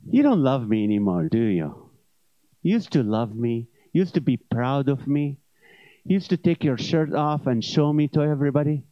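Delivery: guilt-trip him like a jilted lover; hurt spouse whining. Acted. Gut plays a hurt spouse.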